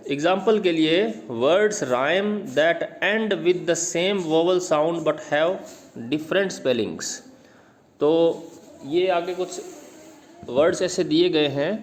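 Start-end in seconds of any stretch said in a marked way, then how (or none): 1.4-7.1 slow textbook reading. Acted. Teacher reading the textbook definition aloud to students, very slow dictation reading. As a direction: read each English word out very slowly, like dictation. Reads textbook English line slowly.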